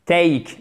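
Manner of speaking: "Take" with a full, strong "ay"; strong vowel. Shown as a demonstration. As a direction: hit the "ay" sound in "Take" firmly. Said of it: "C'est un son fort". (« Take » avec un son fort)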